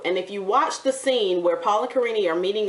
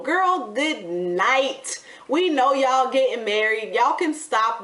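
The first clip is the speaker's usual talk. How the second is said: sassy dismissal; 4 semitones higher, slower than usual. Real, not acted. Mocking the couple's theatrics.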